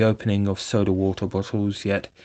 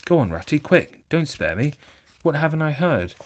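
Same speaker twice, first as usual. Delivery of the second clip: higher and louder, urgent pleading; frightened plea; 7 semitones higher, 5 dB louder than usual. Acted. Toad begs Rat to tell him everything, frightened. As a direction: beg for the news in a panic.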